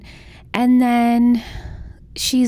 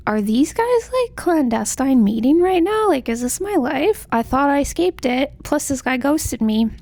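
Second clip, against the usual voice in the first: mock disbelief; 3 semitones higher than usual. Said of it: "So she's like".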